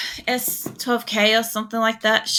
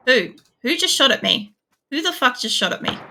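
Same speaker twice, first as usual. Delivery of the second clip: startled outburst; 5 semitones higher than usual. Real, not acted. Suddenly shot at in game.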